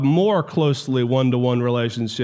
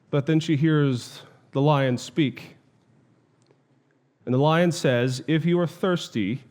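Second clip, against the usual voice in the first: understated storytelling with pauses; story narration. A narrator's reading. Lecturer retells Jill meeting the lion at the river, measured storytelling. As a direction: tell the tale patiently, lightly voicing each character.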